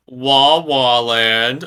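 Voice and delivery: drawn-out mock wail on "Wah Wah"; mock crybaby. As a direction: tease him with a slow, stretched fake bawl. Mock crybaby wail at Luke's complaint.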